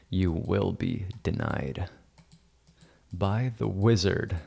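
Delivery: slow, lightly played wizard pronouncement; mock wizard decree. Editor playing wizard refuses Amy, mock-solemn decree. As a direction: pronounce it slowly like a pretend wizard.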